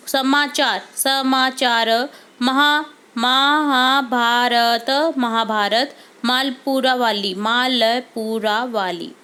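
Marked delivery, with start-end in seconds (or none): 0.9-2.1 समाचार drawn out slowly, syllable by syllable; slow dictation. Shown as a demonstration. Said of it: "teacher reads answer slowly". 2.4-5.1 महाभारत stretched very slowly, महा- first; slow dictation. Shown as a demonstration. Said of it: "teacher dictates slowly". 7.3-9.1 मालपुरा वाली said very slowly, stress on मालपुरा; slow dictation. Shown as a demonstration. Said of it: "teacher dictates slowly".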